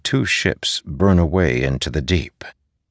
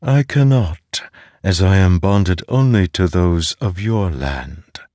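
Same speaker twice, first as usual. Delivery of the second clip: otherworldly voice; 2 semitones higher than usual. Acted. The mind voice answers Zeth.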